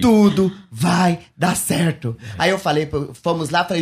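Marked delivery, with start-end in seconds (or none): 0.0-2.2 slow reassuring inner voice. Retold or imitated. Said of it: "continuou aquela voz assim pra mim".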